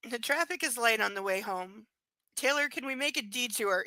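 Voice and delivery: reading the novel aloud; lightly performed book reading; story narration. Acted.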